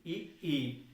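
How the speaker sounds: ई, ई said twice as a model; vowel ii demo. Shown as a demonstration. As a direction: sound out ई twice slowly. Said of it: "बोल के आप एक बार देखिए".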